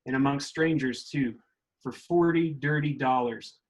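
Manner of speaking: put-on reading aloud in a light mid-Southern accent; mid-Southern accent, like the speaker's grandparents talked. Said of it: "I'm gonna read it in, in that mid-Southern accent".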